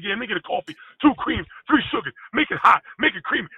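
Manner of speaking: lightly imitated intense teammate; intense coffee order. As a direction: order coffee like it's a game seven. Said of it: "That intensity".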